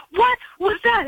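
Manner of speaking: high, incredulous mock cry; shocked shout. Driver after slamming brakes, incredulous high cry. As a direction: squeal it in disbelief.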